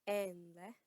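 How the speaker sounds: "Enle" said clearly with a rising tune; teacher models "Enle" for an elder, rising; Yoruba greeting enle. Shown as a demonstration. Teacher models a respectful greeting, slow and clear. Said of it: "Repeat after me".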